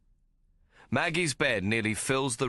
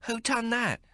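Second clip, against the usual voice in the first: shocked. A narrator's reading. Shocked at scarred back.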